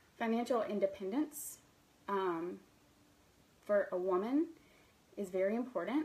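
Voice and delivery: choked with emotion, voice breaking mid-phrase, halting. Speaker sharing personal values with listeners, a little choked up. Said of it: "I'm getting a little choked up".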